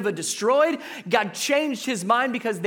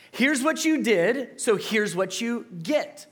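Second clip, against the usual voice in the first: voicing fairness; 3 semitones higher than usual. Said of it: "what fair says is".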